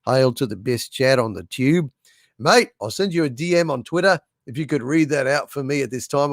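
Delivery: light, quick put-on Australian accent. Shown as a demonstration. Reading an Australian fan's super chat aloud, light Australian accent. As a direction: read it like a mate from Australia, lightly. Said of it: "I should read it in Australian".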